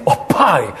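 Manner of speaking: lightly stylized prayer call; affected prayer voice. Retold or imitated. Friend questioning the way he prays, affected prayer voice. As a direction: imitate someone's set way of praying. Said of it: "precisa ser assim?".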